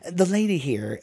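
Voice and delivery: high-pitched, lightly squeaked banker; squeaky. A narrator's reading. Banker speaks for his wife at the store, squeaky. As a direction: lift it up into a mild squeak. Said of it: "the banker squeaked".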